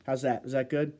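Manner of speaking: normal talking voice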